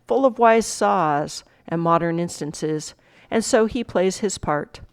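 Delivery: measured reading, slowing and fading to the close; dramatic recitation. Acted. Teacher reading the monologue to students, recitation winding down.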